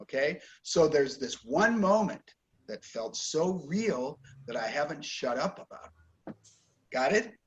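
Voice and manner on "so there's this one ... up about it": "one" and "real" stressed, "about it" falling away softly; model stress. Shown as a demonstration. Teacher repeats the model sentence for the student. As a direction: stress the key words and drop the end. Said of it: "You stress the important words".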